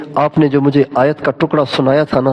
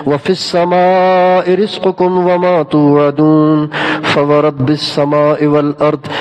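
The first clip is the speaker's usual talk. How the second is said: Quran recitation; 2 semitones lower, much slower than usual. Acted. Young man reciting the verse to the Bedouin, slow solemn chant. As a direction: draw out each word in solemn recitation.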